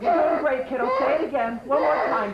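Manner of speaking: high, loud goading; pushing hard over the yelling; urgent loud coaching. Acted. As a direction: egg them on at a shout. Coach goading child to yell.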